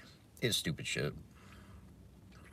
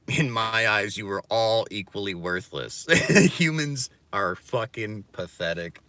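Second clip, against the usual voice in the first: mock villain; 4 semitones higher, 9 dB louder than usual. Villain-like declaration with laugh.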